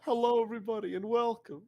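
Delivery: hushed whisper-yell greeting; stage whisper. Shown as a demonstration. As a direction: yell it under your breath at night. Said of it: "like, a whisper yell".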